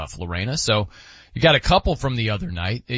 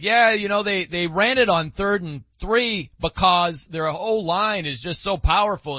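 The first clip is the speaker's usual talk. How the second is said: a hint of an NFL analyst; mock color commentator; 4 semitones higher than usual. Host imitating Phil Simms calling a game. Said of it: "he'd be like".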